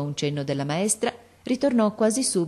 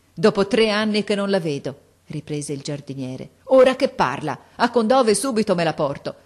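joyful; 4 semitones higher, 6 dB louder than usual. Acted. Overjoyed father exclaims.

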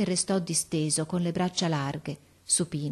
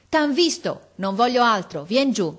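raised, loud command; urgent calling; 6 semitones higher, 6 dB louder than usual. A narrator's reading. Officer warns boy under fire, calling urgently. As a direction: press the order home, calling up.

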